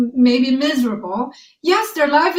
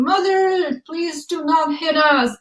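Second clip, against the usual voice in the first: higher-pitched child's plea, lightly acted; mock begging; 5 semitones higher than usual. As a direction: imitate children playfully pleading with mother. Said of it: "these children were just begging".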